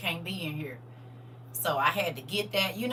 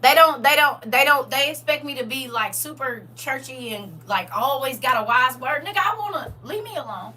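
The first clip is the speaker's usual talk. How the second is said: high, loud exasperated rant; loud venting; 7 semitones higher, 9 dB louder than usual. Real, not acted. Vlogger venting about church expectations, loud and high.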